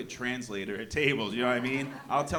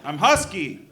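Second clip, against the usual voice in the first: mock indignant kid; 9 semitones higher, 8 dB louder than usual. Kid protesting to dad.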